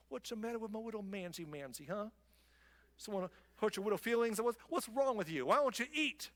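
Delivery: sing-song teasing coo to a pouting husband; baby him like a sulky child; mocking baby talk. Queen mocks sulking king in coddling baby talk. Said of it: "she says".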